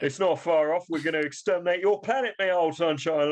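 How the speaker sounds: put-on Cockney accent. Killzone villain threatening a planet, comic Cockney. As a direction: menace the planet in cheery Cockney.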